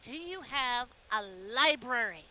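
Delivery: voiced character piping up with a question; put-on questioning voice; Rags piping up. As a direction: pipe up in character. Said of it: "Rags kinda pipes up and goes".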